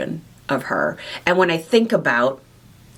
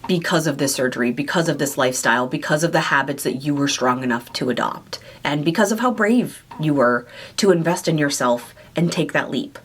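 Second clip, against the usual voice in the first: reassuring. Retold or imitated. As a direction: talk her gently through it. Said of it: "just reassuring her".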